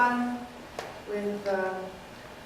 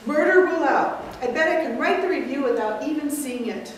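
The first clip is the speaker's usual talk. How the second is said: Mortimer; 4 dB louder than usual. Acted. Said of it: "playing the nephew, Mortimer".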